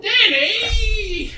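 high laughing call across the room. Real, not acted. Calling to Danny from across the room, laughing. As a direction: shout his name through a laugh.

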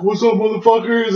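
mock rowdy drunken entrance; drunken holler. Drunk self hollering at the door.

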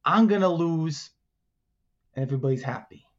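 lightly voiced scheming alligator; a hint of a tough-talking gator striking a deal; alligator wheeler-dealer. Alligator lays out his side of the plan, lightly voiced scheming.

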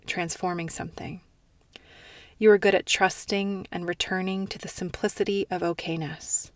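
heartfelt reading, holding back tears; tender reading. Real, not acted. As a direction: read it like a gift to someone hurting. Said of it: "I wanna read to you".

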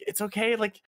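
high, gentle comforting voice; high reassuring coo; consoling. Retold or imitated. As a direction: soothe a crying friend. Friends consoling crying boy.

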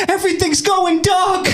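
high hammed-up dying line; bleeding out. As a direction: fake fading into death. Mock dying cop.

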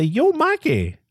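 casual yo greeting. Retold or imitated. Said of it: "I mean, not yo".

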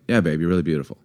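perfunctory, run-together compliment; offhand compliment. Shown as a demonstration. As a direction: toss the compliment off absently. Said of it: "it's just how you say it".

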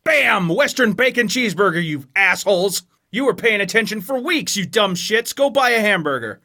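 taunting ad announcer; spring the reveal on the audience; hammed-up fast-food pitch to viewers; mock ad reveal. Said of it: "it's just be like".

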